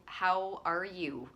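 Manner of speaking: slow, sincere question; unhurried, each word given weight; genuinely asking. Shown as a demonstration. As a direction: ask it slowly and mean it. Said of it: "really genuinely asking people".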